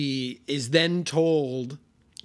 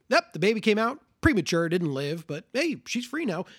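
higher, brisk and breezy, faster; mock cheerful doctor; 5 semitones higher than usual. Obstetrician telling the husband the baby died, mock cheerful. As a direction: toss off the bad news like it's good news. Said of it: "Like the Doctor Hoffman".

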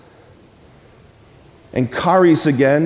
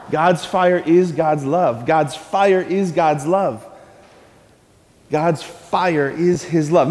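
slow, spaced-out phrase for the congregation; slow and deliberate; slower than usual. Shown as a demonstration. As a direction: lay it out word by word so they can echo. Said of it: "One more time".

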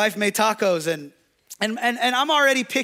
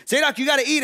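a touch of fatherly exasperation, slightly raised; getting mad; 5 semitones higher, much faster than usual. Retold or imitated. Dad losing patience with toddler refusing tacos, mildly exasperated. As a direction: push it harder, losing patience. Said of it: "now I'm getting mad".

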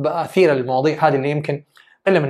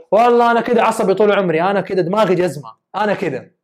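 defensive excuse; 3 semitones higher than usual. Retold or imitated. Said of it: "فيبدأ يقول".

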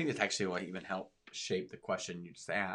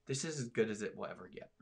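whispered, soft and hushed; 6 dB quieter than usual. Real, not acted. Host to co-host, whispering the grim point. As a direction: drop to a secret whisper. Hushed aside while explaining the kingdom.

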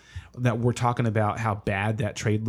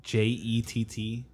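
spelling it out; 6 dB quieter, slower than usual. Shown as a demonstration. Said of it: "Spell that for me".

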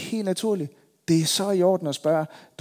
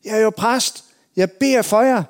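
raised, higher call to neighbors behind glass; shouting through a window; 6 semitones higher, 6 dB louder than usual. Retold or imitated. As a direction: call it out so they hear you inside. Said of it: "så råbte igennem vinduet".

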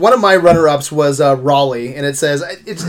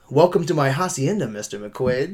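serious villain; 3 semitones lower, 9 dB quieter than usual. Retold or imitated. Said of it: "he's so serious".

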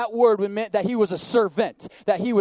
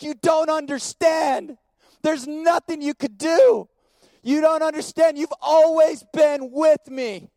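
passionate father; 5 semitones higher than usual. Acted. Father's reply, passionate preaching.

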